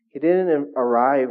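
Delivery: slow, loud, leaning on "didn't"; stress on didn't. Real, not acted. Preacher to congregation, heavy stress on "didn't". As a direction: drag out "He didn't arrive" with weight on "didn't".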